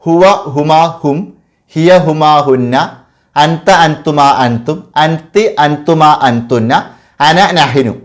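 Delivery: each pronoun spaced out, slow and deliberate; slow, clear teacher's chant of the pronoun list; slow recitation. Shown as a demonstration. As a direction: recite ഹുവ ഹുമാ ഹും word by word for students to copy. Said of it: "ഇത്ര വരുന്നതാണ് മുൻഫസിലായ ലമീർ".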